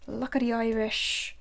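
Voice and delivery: put-on terrible Irish accent. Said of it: "That was a terrible Irish accent".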